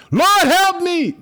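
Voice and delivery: high, loud, slow wail; drawn-out anguished cry for help; desperate plea. Acted. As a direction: cry out to God from trouble. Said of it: "He's talking to God".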